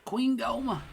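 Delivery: high, loud boss name call; excited announcement. Real, not acted. Gamer announcing the defeated boss, excitedly.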